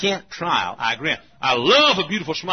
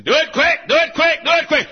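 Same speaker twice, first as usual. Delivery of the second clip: mock impatient urging; 13 semitones higher, 6 dB louder than usual. Mimics a hurry-up attitude.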